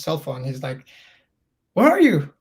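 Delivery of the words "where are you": menacing caller. Retold or imitated. Caller on mom's phone.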